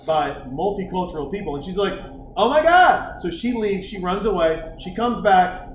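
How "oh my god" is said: high shocked oh my God; shocked gasp. Retold or imitated. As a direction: gasp it higher. Shocked girl, higher, louder.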